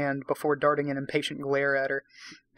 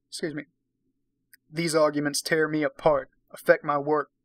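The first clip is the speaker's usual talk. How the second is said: deep timbered voice. Acted. Husband tells wife the marriage is over, firm. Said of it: "I'll try to put on a deep timbered voice when I read Jack".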